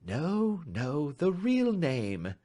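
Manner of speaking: slow, gentle, knowing correction; sweetly. A narrator's reading. Detective correcting the nervous stranger, slow and sweet. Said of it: "said Holmes sweetly".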